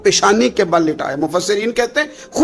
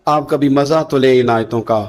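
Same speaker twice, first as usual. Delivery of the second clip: usual speaking voice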